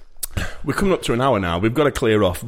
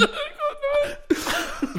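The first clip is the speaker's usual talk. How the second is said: squeaky gleeful gremlin giggle; 6 dB quieter than usual. Real, not acted. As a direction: squeal through the catchphrase. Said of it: "sound like a gremlin".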